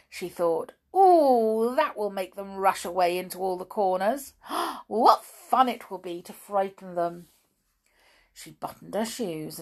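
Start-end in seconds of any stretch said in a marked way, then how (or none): 1.0-7.3 a loud gleeful ooh, then quick excited plotting; gleeful mischief. Acted. Amelia Jane delighting in scaring the toys, excited. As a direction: savour the naughty idea.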